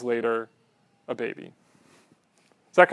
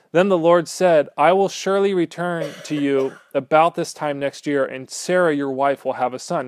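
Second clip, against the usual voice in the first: scripture reading; 4 dB louder than usual. Acted. Reads the Lord's words aloud.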